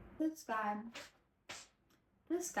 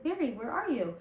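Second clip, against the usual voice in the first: mock call, higher and louder; calling the dog; 6 semitones higher, 5 dB louder than usual. Boy in the yard calling for his dog, mock calling out. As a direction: call out into the dark for the missing dog. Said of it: "he's like".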